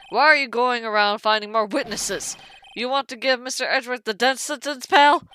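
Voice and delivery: lightly voiced indignant detective; accusing detective figure. Detective scolding lawyers for finding witnesses, indignant. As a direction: challenge them, punching the final word loudly.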